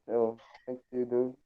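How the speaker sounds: ordinary delivery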